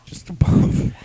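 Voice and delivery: sly whispered aside. Real, not acted. Telling the guys where the mustache is, in a sly whisper. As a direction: drop to a whisper for the punchline.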